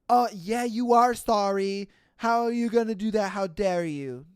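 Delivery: sarcastic mock outrage; mock indignation. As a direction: voice an offended passenger snapping back. Voices outraged woman on bus.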